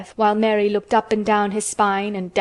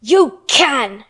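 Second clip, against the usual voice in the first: loud, forceful retort; angry shout; 3 semitones higher, 7 dB louder than usual. A narrator's reading. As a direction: shout him down firmly. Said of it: "shouted Mary".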